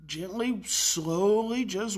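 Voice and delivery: slow, stretched-out words; gentle and slow. Retold or imitated. Carer leaving the upset boy, gentle and slow.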